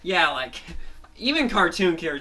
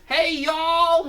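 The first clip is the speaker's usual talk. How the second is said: much higher, louder hello; hero greeting; 12 semitones higher, 6 dB louder than usual. Acted. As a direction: wave to the crowd. Fango greets crowd.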